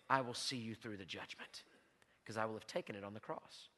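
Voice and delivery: low, soft pulpit voice; solemn preaching. Acted. Pastor voicing Christ's promise about judgment, solemn hushed preaching. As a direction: let it sink down to a grave, quiet assurance.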